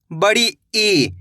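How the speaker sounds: "बड़ी ई" said very slowly with a long ee; long ee drawn out. Shown as a demonstration. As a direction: draw out the ee in "बड़ी ई". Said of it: "इसको खींच के पढ़ा जाता है".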